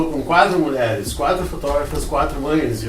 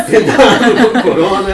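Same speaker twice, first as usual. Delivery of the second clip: rindo alto; 8 semitones higher, 10 dB louder than usual. Real, not acted. Joking warning while laughing.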